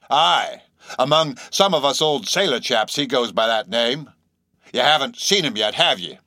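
odd sailor stranger, confiding and intent; eccentric old sailor. A narrator's reading. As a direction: talk like a knowing old salt. Stranger explains the nickname.

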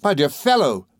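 high, eager affection; excited greeting. A narrator's reading. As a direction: greet a long-lost friend excitedly. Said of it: "rumpling his hair in his excitement".

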